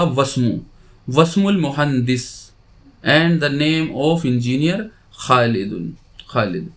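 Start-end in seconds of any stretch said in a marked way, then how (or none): 0.0-0.6 वस्मु as one word, vowel of इस्मु dropped; joined reading. Shown as a demonstration. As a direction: run व straight into स्मु: वस्मु. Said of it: "इसे मिलाकर पढ़ा जाएगा".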